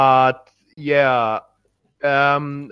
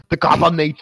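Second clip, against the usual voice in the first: Arnold Schwarzenegger; much faster than usual. Retold or imitated. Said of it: "very Schwarzenegger".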